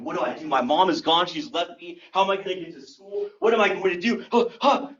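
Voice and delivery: rushed, panicky questions ending in gasps; acted panic. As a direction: play a kid starting to hyperventilate. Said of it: "I started panicking".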